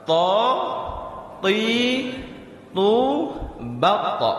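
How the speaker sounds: "Ta, ti, tu" with the tongue tip on the upper teeth, no breath; crisp ta without air. Shown as a demonstration. Teacher drilling the letter ta with students, crisp. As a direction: tap out "ta" clean and unaspirated. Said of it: "bagaimana cara mengucap huruf ta".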